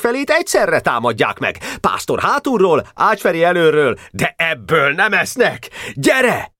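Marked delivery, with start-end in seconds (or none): 1.8-6.5 high-pitched urgent character voice; excited calling. A narrator's reading. Boy urging a comrade to come along, excited high call.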